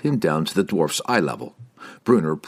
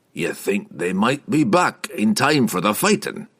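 wry dwarf voice; 3 semitones higher than usual. Acted. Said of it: "snapped a wry glance".

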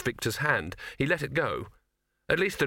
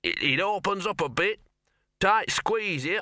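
muffled; 8 semitones higher than usual. A narrator's reading. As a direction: voice muffled from inside a tunnel. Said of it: "a muffled voice said".

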